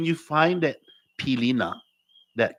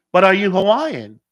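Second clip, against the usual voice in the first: loud, raised-pitch demand; insistent retold question; 8 semitones higher, 11 dB louder than usual. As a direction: press the question as the pushy asker.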